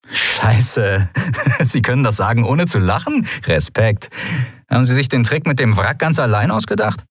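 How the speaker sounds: fast amused disbelief; pirate mocking the admiral's cause; Sephiron, scoffing laugh. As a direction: laugh off his grand claim.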